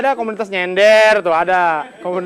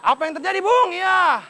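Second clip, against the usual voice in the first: mock quiz host. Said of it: "kirimkan jawaban Anda ke S M S".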